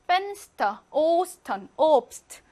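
펜스터, 오스턴, 오브스트 with a clean s; plain s. Shown as a demonstration. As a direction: keep st as s-t in 오스턴, no sh. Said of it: "중간이나 끝이기 때문에".

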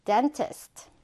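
"dentist" slowed down for learners to repeat; careful, unhurried "dentist"; slow pronunciation. Shown as a demonstration. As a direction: say "dentist" slowly and evenly. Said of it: "천천히 발음해볼까요".

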